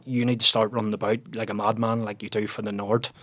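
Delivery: put-on a mild take on a Cork Irish accent. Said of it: "in his strong Cork accent".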